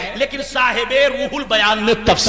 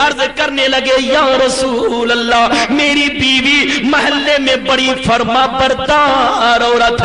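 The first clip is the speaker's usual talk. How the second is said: tearful plea; slower than usual. Acted. Weeping son pleads, bewildered.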